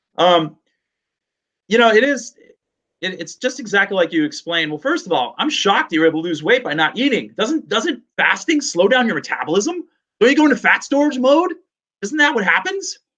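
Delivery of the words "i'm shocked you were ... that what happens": put-on, sing-song sarcastic tone. Reacting to the other speaker's account with put-on sarcastic tone. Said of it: "I'm being sarcastic".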